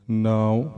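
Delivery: ਨਾਉ ending in a nasal ਉ. Shown as a demonstration. Teacher showing the class the nasal ਨਾਉ. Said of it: "ਨਾਸਕੀ ਉਚਾਰਨ ਹੋਵੇਗਾ".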